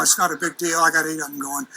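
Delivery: relaxed, unbothered pilot calling it in; cool test pilot. Shown as a demonstration. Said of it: "You gotta talk real cool".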